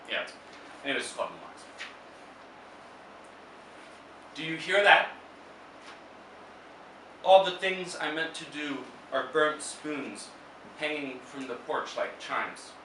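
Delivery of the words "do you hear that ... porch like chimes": measured poetry reading with long pauses; poem recital. Acted. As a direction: read it as verse, phrase by phrase. Reads own poem aloud.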